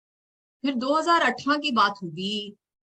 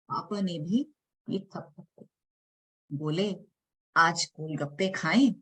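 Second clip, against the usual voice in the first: measured, dramatic spoken-word reading; poem recitation. Acted. Poet reciting her poem to the audience, dramatic spoken word. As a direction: perform the poem line by line, with pauses.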